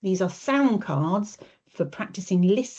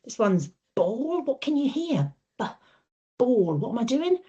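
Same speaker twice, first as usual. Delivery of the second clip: a touch higher, clear and encouraging; modelling voice; 3 semitones higher than usual. Shown as a demonstration. Therapist showing a child the b in ball, lightly higher. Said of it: "What I'm gonna do is go".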